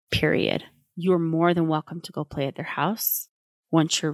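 calm parent voice. Shown as a demonstration. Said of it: "You validate the feeling".

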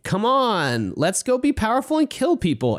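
a gleeful power-hungry villain; eager villain voice. Retold or imitated. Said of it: "he's just like".

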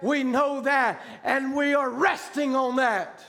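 slow, emphatic preacher's cry; retold scream. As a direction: retell the crowd's cry, drawing each word out. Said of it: "Then people scream back".

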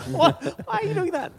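crab voice. Acted. Player reacting in crab voice.

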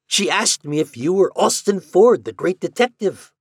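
high, loud, eager exclamation; crying out. A narrator's reading. Doctor telling Ford she asked for him, crying out. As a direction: insist excitedly, pitched well up. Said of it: "cried the doctor".

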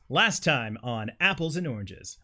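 slow, drawn-out TV recap announcer; lightly voiced trailer narrator. Shown as a demonstration. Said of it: "Announcer voice".

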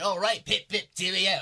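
hammed-up mock British accent; badly faked Brit accent; terrible British accent. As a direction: put on a bad British accent. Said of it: "when I break out that accent".

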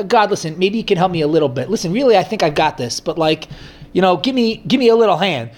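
offhand, half-hearted ask; a breezy, take-it-or-leave-it plea; lazy prayer. Retold or imitated. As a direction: toss the request off casually. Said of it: "call out to God in a lazy fashion".

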